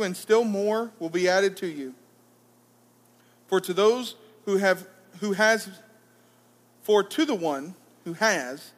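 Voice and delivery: measured, solemn Bible reading; scripture reading. Acted. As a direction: read the gospel aloud to the congregation, unhurried. Reading the gospel aloud.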